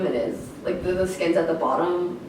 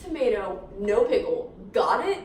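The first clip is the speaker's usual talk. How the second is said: put-on sassy kid; 4 semitones higher than usual. Retelling sassy kid's order.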